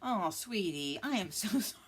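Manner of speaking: breaking into laughter while apologizing; real laughter over a silly name; laughing apology. Real, not acted. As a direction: giggle through the sorry, half whispered. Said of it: "I shouldn't laugh".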